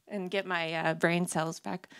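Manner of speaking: talk, sigh, steady yourself; nervous sigh and reset; deep breath. Real, not acted. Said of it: "take a deep breath".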